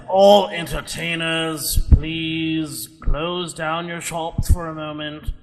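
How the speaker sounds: slow, drawn-out public-address voice; booming announcement. Acted. Dwarf tells all entertainers to close shop, booming announcement. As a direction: stretch words out as if over fairground speakers. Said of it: "suddenly his voice is booming across".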